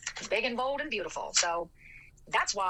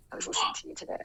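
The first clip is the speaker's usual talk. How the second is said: whispered aside; faster than usual. Real, not acted.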